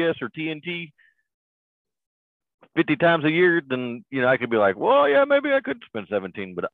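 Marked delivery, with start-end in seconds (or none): 4.8-6.5 very high, squeaky put-on voice; hammed-up falsetto hedging; mock concession. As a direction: pitch way up, as if reluctantly giving in. Acts out grudging hypothetical concession.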